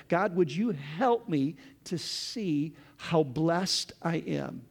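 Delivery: slow, careful, prayerful pace; slow, earnest prayer; slow dictation. Shown as a demonstration. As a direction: say it slowly so they can write it. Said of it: "write this prayer down".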